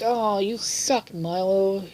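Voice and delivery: high, slow jeering taunt; mock taunt. Kids beating up Milo, slow high mock jeer. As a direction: drag out the insult mockingly. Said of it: "They're like".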